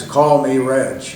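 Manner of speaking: slow, emphatic instruction. Retold or imitated. Reg looking at you with blue eyes, emphatic. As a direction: spell it out firmly, word by word. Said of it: "he's very emphatic".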